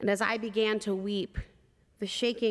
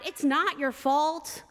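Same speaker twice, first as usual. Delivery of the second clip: slow, higher, earnest plea; pleading reassurance; 6 semitones higher, slower than usual. Retold or imitated. Chaplain comforting the guilty mother, slow earnest plea. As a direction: insist gently she is not to blame. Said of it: "I cried".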